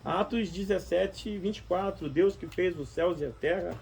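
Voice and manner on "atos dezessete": ordinary talk, nothing marked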